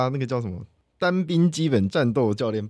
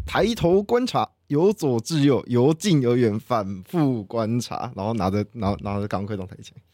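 recited drill. Shown as a demonstration. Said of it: "那你示范个这个十秒。".

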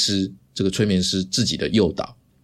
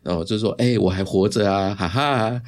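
cheerful greeting; 2 semitones higher than usual. Retold or imitated. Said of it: "很有精神的跟他们说".

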